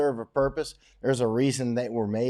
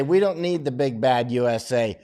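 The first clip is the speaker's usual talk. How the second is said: hammed-up defiance, swelling at the end; mock defiant complainers; 4 semitones higher, 8 dB louder than usual. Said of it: "all you complainers ... Then you can say".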